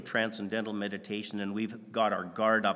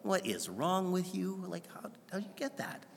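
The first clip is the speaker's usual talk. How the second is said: exasperated; 6 semitones higher, 8 dB quieter than usual. Retold or imitated. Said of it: "some of us are going".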